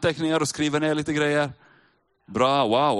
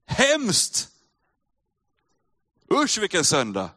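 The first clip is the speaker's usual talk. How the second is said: horrified cry; 3 semitones higher, slower than usual. Acted. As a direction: gasp it out as if shocked by the empty grave. Reacting to the empty tomb.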